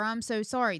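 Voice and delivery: emphatic example of what not to say; rejected apology. Retold or imitated. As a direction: voice the wrong apology firmly. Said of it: "Now, I do not say".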